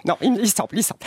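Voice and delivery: lightly voiced snooty French bourgeoise; a hint of a haughty Paris socialite; posh Parisian lady. Comic greeting the radio host as a snobbish French lady. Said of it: "vous trouvez peut-être que je fais mal l'accent français".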